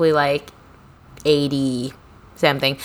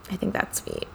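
softer echo of the phrase, said to herself; quiet afterthought; much softer repeat; 12 dB quieter than usual. Shown as a demonstration. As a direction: drop it almost to nothing. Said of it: "repeats the phrase much softer".

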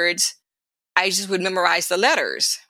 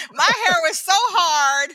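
laughing; 10 semitones higher, slower than usual. Real, not acted. Laughing while retelling the mess.

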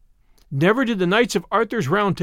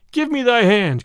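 higher-pitched, mild call; raised, lightly acted cry; storybook cry; 5 semitones higher, 4 dB louder than usual. A narrator's reading. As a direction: call out, falling at the end. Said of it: "cried he".

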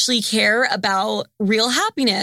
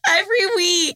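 laugh-crying shout; 7 semitones higher than usual. Real, not acted. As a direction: wail it out while laughing. Laughing repeat of family joke.

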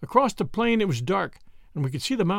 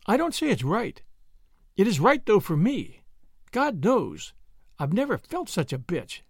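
lightly voiced guilt-ridden woman, pitched up; Brett, guilty but resolved; 3 semitones higher than usual. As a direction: admit it with a touch of self-reproach. Voices Brett, ashamed but set.

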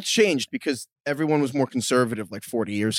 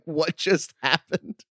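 mock scream; 4 semitones higher, much slower than usual. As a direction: imitate screaming into a phone in slow disbelief. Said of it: "screaming into the phone".

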